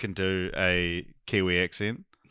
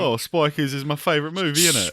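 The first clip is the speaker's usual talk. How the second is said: light British accent with innit; casual London-style British accent; 6 semitones higher than usual. Shown as a demonstration. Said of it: "do a British accent".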